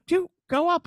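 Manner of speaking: high, pushy "dude, go up"; eager dad nudging his son; urging. Retold or imitated.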